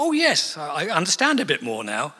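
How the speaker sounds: mock self-satisfied sigh of insight; smug. Preacher mocks his own smugness after studying, a touch of pleased smugness. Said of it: "pleased with myself".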